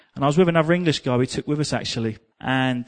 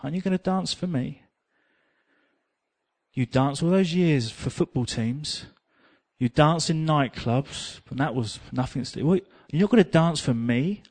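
gentle voice of God. Retold or imitated. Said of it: "the Holy Spirit ... say".

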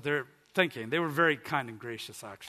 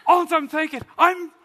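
high, loud, elated outburst; so excited; 11 semitones higher, 11 dB louder than usual. Retold or imitated. Man realises he is praying in tongues, wildly excited. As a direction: re-enact a thrilled breakthrough at full voice. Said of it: "I was so excited".

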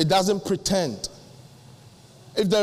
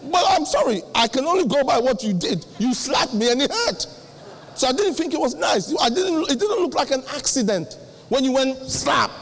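mock indignant complaint; 5 semitones higher than usual. Acted complaint about being slapped.

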